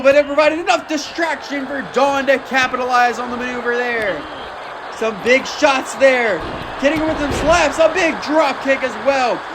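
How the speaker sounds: energetic play-by-play, bursts of shouting; wrestling commentator. Acted. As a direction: keep calling the action with rising hype. Continues live match commentary.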